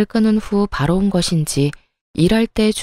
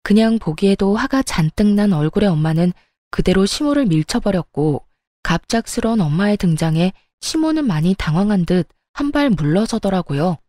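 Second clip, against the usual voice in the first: ordinary delivery, nothing marked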